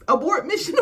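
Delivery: high, loud panicked call; mock panic, high and loud; frantic plea. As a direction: sound the alarm to stop her. Princess urges friend to stop.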